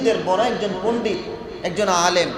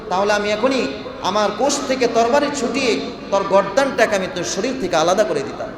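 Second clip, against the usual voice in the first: raised-pitch scolding, moderately forceful; retold rebuke; 4 semitones higher than usual. Companion threatens the man who seized the Prophet's collar, retold scolding. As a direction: threaten as a preacher acting out an outraged companion. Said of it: "তাকে ধমক দিয়ে বললেন".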